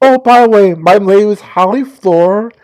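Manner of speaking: a hint of bubbly Valley Girl; lightly voiced sorority girl introduction. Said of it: "my Valley Girl voice".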